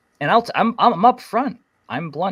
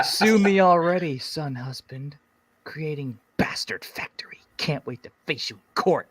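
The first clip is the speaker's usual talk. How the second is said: high whispered Karen taunt; 3 semitones higher than usual. Pretend. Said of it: "If you were Karen".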